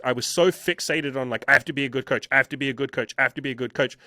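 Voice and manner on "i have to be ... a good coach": anxious looping repetition, evenly insistent; anxious self-talk. Retold or imitated. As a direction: retell it as a mildly fretful mantra. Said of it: "like, anxious".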